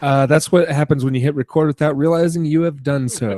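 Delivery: talking through a laugh; chuckling while repeating the joke. Real, not acted. Joking about hitting record.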